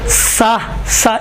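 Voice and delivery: سا with plain thin s and open "aa"; unrounded, narrow-mouthed سا; simple light "saa"; light seen. Shown as a demonstration. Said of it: "یہ سین ہے".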